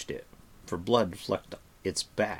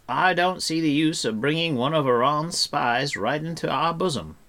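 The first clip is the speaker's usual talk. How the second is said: raised, louder bard's character voice; Fflewddur, reasoning; 6 semitones higher, 4 dB louder than usual. A narrator's reading. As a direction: object grandly but amiably, pitched up.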